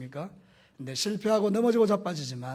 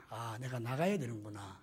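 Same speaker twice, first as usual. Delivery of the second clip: laughing aside; 7 semitones lower, 11 dB quieter than usual. Retold or imitated. Quotes own thought, laughing.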